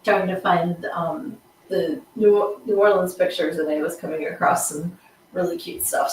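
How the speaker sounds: chewing ice while talking; words round a mouthful of ice. Real, not acted. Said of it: "I'm chewing on ice".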